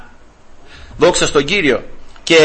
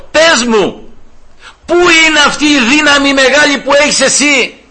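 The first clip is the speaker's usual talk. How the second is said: higher, wheedling seductress pleading with Samson; coaxing Delilah; 8 semitones higher than usual. Acted. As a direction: sweet-talk him for his secret. Preacher voices Delilah coaxing Samson. (η Δαλιδά καλοπιάνει τον Σαμσόν με ψιλή φωνή)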